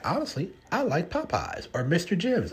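mock friend. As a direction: play the friend's breezy comeback. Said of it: "And they're like".

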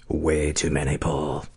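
low, soft radio DJ voice; smooth late-night DJ delivery. Shown as a demonstration. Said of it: "I'm beginning to hate D J Voice".

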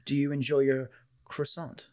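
put-on French words with no French accent; lightly imitated actor skipping the accent; Jeff Goldblum. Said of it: "French words instead of using a French".

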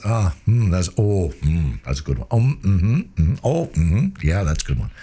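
low murmured hmms and thoughtful mm-hmms; active listening. Shown as a demonstration. Coach showing a salesman listening to a customer, murmuring. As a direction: show you are really listening, nodding along aloud. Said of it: "Active listening".

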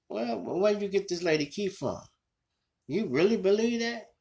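high disbelieving questions, pitch jumping up. Real, not acted. Vlogger reacting to the killer's claim, high and incredulous. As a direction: ask it in outright disbelief.

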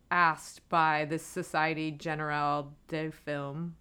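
Société Générale de Film said with a French accent, a bit slow. Shown as a demonstration. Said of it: "Oh, my French accent, isn't it so good?".

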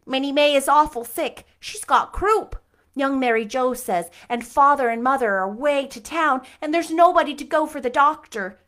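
high, loud frightened pleading; imploring nervously. Acted. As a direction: beg for help, breathless with fear. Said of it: "implored Diana nervously".

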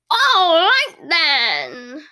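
high, sing-song fake sympathy; syrupy cashier. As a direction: coo at her like an overly caring clerk. Cashier wraps up sweetly.

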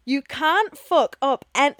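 weird reading. Real, not acted. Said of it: "why did I say that so weird".

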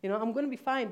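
high, loud, pleading protest; panicked daughter shouting at her mother over the call; retold screaming and crying. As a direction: yell back at mom in panic, half-sobbing. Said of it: "screaming and crying".

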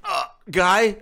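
mock gushing. Friend mocking the fan's thanks, high gushing. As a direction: ham up a flattered fan.

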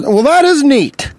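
high, slow gushing amazement; drawn-out, wide-eyed wonder; impressed simpleton. Retold or imitated. Imitating the gullible impressed customer.

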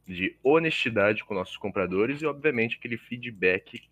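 sponsor ad read. Acted. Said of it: "Eu tava fazendo merchan".

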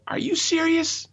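high, pushed-up angry challenge; high outraged scolding; indignant retort. Retold or imitated. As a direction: confront the driver face to face. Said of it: "and I, I go".

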